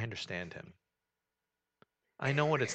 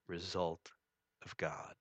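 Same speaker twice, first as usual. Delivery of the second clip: whispered; 6 semitones lower, 9 dB quieter, slower than usual. Real, not acted. Hushed climax of a sentence.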